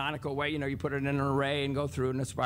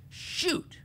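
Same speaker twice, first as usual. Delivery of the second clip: breathy under-the-breath shoot; whispered curse; 13 semitones higher than usual. Retold or imitated. Mary sees the class caught her error, whispering. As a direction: mutter it to yourself, caught out.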